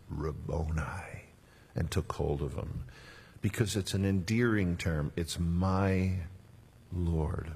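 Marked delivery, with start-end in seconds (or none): 0.1-1.3 softer, slow, breathed-out whisper; Mary at the tomb whispering to Jesus in awe; tender whisper. Acted. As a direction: breathe the word in wonder.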